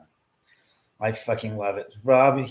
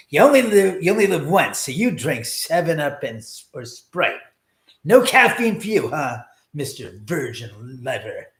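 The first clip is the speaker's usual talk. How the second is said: Lewis Black rant; 6 dB louder than usual. Retold or imitated. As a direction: yell it like an outraged comedian, then sneer. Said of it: "That's how Lewis Black would say it".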